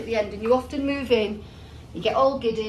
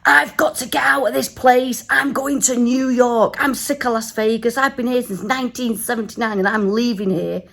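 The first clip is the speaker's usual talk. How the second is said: lightly put-on American accent, louder; mock loud American cabbie; American-accent taxi driver; 4 dB louder than usual. Taxi driver ranting about leaving Vegas, mock American accent. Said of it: "doing this in, like, an American accent".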